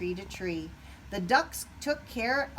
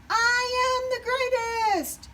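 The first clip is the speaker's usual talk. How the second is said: high, louder bragging shout; shouted boast; 7 dB louder than usual. A narrator's reading. Wing gloating over his first medal, bragging shout. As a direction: crow over the win. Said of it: "Wing shouted".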